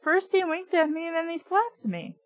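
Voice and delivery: insisting. A narrator's reading. Trina insisting to Dan.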